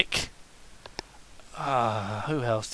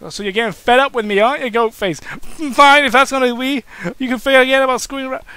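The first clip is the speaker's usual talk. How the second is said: slightly angry; 7 semitones higher, faster than usual. Acted. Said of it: "which made Cain slightly angry".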